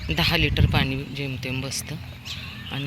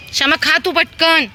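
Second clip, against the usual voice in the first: high, loud urging of the dog; high loud coaxing; 12 semitones higher, 8 dB louder than usual. Real, not acted. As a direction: hurry the dog to eat.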